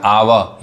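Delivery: आवा as "aa-wuh", ending in a vowel; correct two-part sound. Shown as a demonstration. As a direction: say आवा with an open second syllable. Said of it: "तो ओयू का उच्चारण क्या होता है?". (आवा, आख़िर में खुला स्वर)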